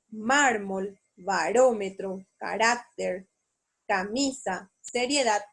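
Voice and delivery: "mármol, barómetro, carácter, camisa, seriedad", each leaning on MÁR, RÓ, RÁC, MI, DAD; word list "mármol, barómetro, carácter, camisa, seriedad" with each stressed syllable marked; stressed tonic syllables. Shown as a demonstration. Teacher listing examples, "mármol, barómetro, carácter, camisa, seriedad" each with its tonic syllable stressed. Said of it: "distintas palabras donde estoy intensificando la".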